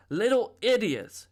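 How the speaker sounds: high, loud furious snap of little idiot; angry shout. A narrator's reading. Linda shouting at the boy after pushing him, furious. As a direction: lash out at him in rage. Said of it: "she shouted".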